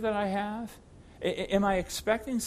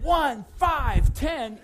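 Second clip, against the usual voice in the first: much louder, higher hurried count; angry counting; 7 semitones higher, 8 dB louder, much slower than usual. Retold or imitated. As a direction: rattle off the count while charging upstairs. Rushing up stairs counting.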